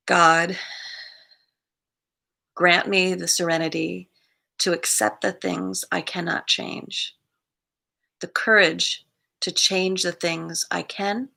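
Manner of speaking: measured prayer with long pauses; prayer recitation. Acted.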